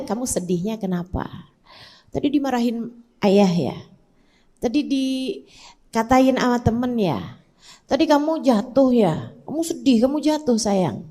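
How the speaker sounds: put-on soft, caring questions to a child; gentle questioning. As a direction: ask tenderly what made them sad. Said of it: "kemudian nanya".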